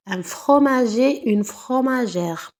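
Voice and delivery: slow pair "fromager", "fromagère"; slow teaching demo. Shown as a demonstration. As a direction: model the masculin and féminin slowly. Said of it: "et devient R".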